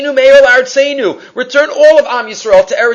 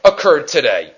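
crying out to Hashem. Retold or imitated. Preacher voicing a congregation crying to Hashem, pleading. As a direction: pour out grief to God, mock-pleading. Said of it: "we cried to Hashem".

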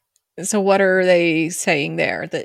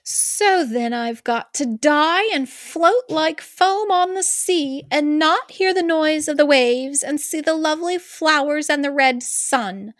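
put-on whiny teenager mermaid; 8 semitones higher than usual. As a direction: whine it like a moody teen. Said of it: "Such a teenager".

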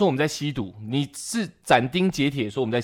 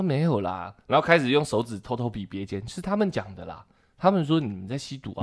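sheepish mumble; 2 semitones lower, 6 dB quieter than usual. Retold or imitated. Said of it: "就支支吾吾".

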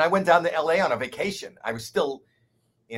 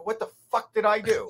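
baffled; 8 semitones higher than usual. Retold or imitated. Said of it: "I go".

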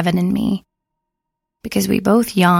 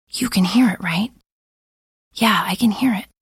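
whisper. Acted. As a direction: keep it hushed and nervous. Hushed talk in the dark.

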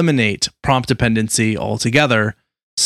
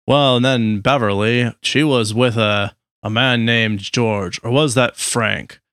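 put-on old grandpa voice. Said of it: "your grandpa impression is like a Jimmy Stewart impression".

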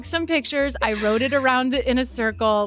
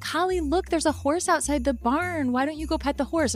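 coaxing parents; 5 semitones higher than usual. Retold or imitated. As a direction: coax her gently, pitched up. Parents coaxing sulky child.

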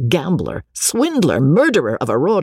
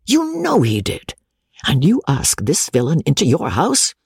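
rector's outraged ranting, with pitch jumps; a country rector fuming at his wife; exasperated rector. Acted. Exasperated rector railing against his nephew. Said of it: "continued the exasperated rector".

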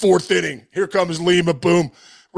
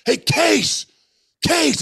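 calling out; 7 semitones higher, much slower than usual. Retold or imitated. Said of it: "then I hear him".

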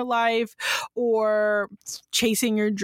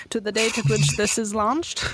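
odd announcer voice. Acted. Co-host laughing at her sudden newscaster read. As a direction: say it like a stiff old-timey newscaster. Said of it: "don't know why I said it like that".

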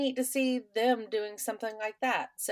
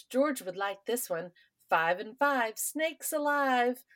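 bingo caller; 4 semitones higher, slower than usual. Retold or imitated. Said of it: "pulls out the next ball and says".

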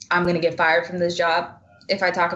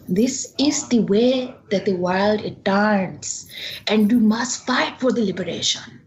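put-on slow, emphatic Bengali-accented dad; father's strong Bengali accent; 3 semitones higher than usual. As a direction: impersonate a Bengali father giving a lesson. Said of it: "such a good Bengali accent".

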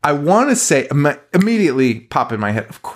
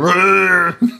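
imitated angry growl, pitched up; mock angry growl; 6 semitones higher, 3 dB louder than usual. Co-host mimics an always angry superhero, mock growl. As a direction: growl like a brooding hero, played for laughs.

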